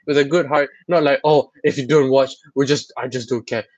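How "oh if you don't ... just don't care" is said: a light, dismissive shrug of a voice; mock uncaring tone. Mocking a careless podcast host, lightly dismissive. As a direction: toss it off like you couldn't care less. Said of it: "That's such a terrible tone".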